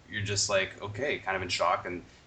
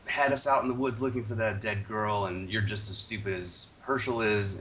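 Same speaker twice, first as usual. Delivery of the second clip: retold yelling; 3 semitones higher than usual. Host retells Shane laying into Rick, mock yelling. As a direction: imitate an accusing outburst, easing toward normal. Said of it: "Shane actually starts yelling at Rick".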